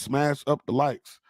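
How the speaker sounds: "smash up the likes" slowed right down, falling on "up"; slow drawn chant in a rapper's style with "up" falling; slow call in a rapper's style. Retold or imitated. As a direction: lay it out slow and heavy. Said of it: "like Willie D would say".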